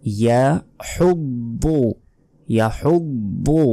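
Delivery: ইয়াহুব্বু drawn out from the throat; correct demo. Shown as a demonstration. Teacher models the correct word. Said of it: "সঠিক উচ্চারণ হচ্ছে ইয়াহুব্বু".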